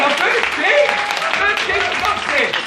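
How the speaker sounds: high-pitched comic protest; mock pleading. New comic excusing himself to the audience, mock pleading.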